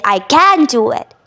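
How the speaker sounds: slow, firm I can do it; I can do it with conviction, slowly; I can do it said slow and determined; powerful, deliberate. Shown as a demonstration. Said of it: "there is a power".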